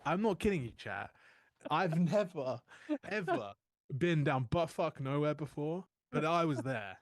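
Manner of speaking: loud, high, building exclamation; excited emphasis. Real, not acted. Telling chat the trip, loud and amazed. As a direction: pitch it up and push it out with disbelief.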